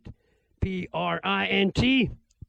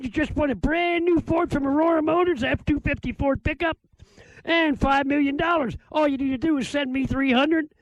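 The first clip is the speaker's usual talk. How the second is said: higher, eager prize-announcer pitch; mock salesman pitch; 3 semitones higher than usual. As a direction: hype the fake prize like a huckster. Turning scam on scam caller.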